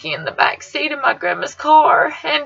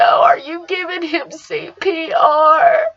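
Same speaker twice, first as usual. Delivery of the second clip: slow, higher tearful yell out a car window; screaming from the car, crying and frightened; 4 semitones higher, slower than usual. Retold or imitated. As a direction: shout it through tears, desperate. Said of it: "I screamed out the window".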